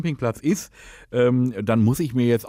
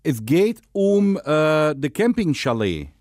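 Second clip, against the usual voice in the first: put-on Dutch accent, lisping; 4 semitones higher than usual. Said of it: "rede, lispeln und Holländisch".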